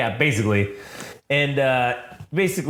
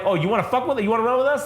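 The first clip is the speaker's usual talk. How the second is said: mock taunting thug; 8 semitones higher, faster than usual. Kidnapper taunting his partner.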